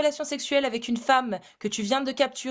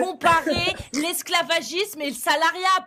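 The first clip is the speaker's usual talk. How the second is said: real exasperation, drawing out the final curse; worked up; 3 semitones higher than usual. Real, not acted. Debater fed up with slavery compared to wage labour, exasperated. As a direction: lose patience with a bad comparison. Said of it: "Pourquoi tu t'énerves?".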